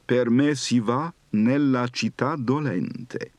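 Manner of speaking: me lifted, then città dolente falling slowly; pitch pattern. Shown as a demonstration. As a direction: lean on me and let dolente fall. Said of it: "Possible pitch pattern".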